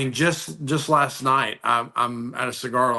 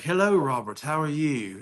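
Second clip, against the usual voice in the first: lightly imitated South African accent; retold greeting, touch of South African accent. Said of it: "He's got this beautiful accent".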